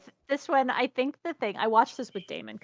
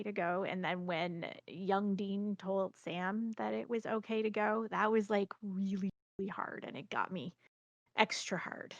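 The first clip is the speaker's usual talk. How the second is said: choked up; 6 dB quieter than usual. Real, not acted. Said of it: "It's actually making me a little choked up".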